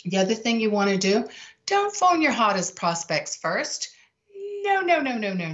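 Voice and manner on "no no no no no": higher, urgent no no no; sharp insistent no; emphatic no. Real, not acted. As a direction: stop them in their tracks. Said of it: "emphatic refusal".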